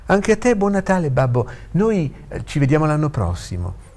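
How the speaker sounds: high-pitched Christmas goodbye; lifted, lively parting words; cheerful farewell. Acted. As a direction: return the good wishes brightly. Son bids his father goodbye.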